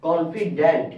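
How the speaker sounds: কনফিডেন্ট said "kon-fi-dent"; confident with an E. Shown as a demonstration. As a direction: give the last vowel of কনফিডেন্ট an E. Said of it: "একটাতে আছে ই".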